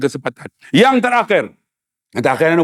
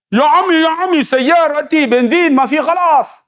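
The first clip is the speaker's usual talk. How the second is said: pleading Arab driver; 6 semitones higher than usual. Retold or imitated. Arab explaining in Arabic.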